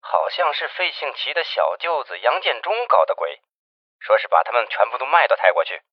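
quiet, hurried report over a phone line; hushed phone call. Acted. Investigator Jiang reports news to the chief by phone, hushed.

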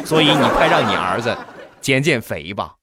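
laughing retell. Retold or imitated.

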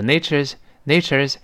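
"nature's" quick, its final z near an s; devoiced ending. Shown as a demonstration. Teacher shows fast-speech nature's, ending devoiced. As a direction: let the end of "nature's" soften to s. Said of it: "它跟清辅音就差不多了".

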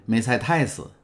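the returning sailor calling out gladly; joyful call. A narrator's reading. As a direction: call her name eagerly. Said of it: "兴冲冲地叫了起来".

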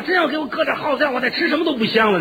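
quick, plain-voiced fretting; worried musing. Husband fretting about poison, quick and plain. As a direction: rattle off the worry under your breath. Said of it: "我也琢磨了".

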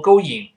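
"going" wrongly as go-ying, no w; bad example of "going" without the w glide; mispronunciation demo. Shown as a demonstration. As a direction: say "going" with a bare i after go. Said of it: "不要读going".

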